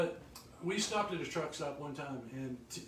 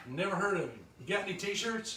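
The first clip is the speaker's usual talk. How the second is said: imitating a trucker; 4 semitones higher, 4 dB louder than usual. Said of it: "here's your typical thing".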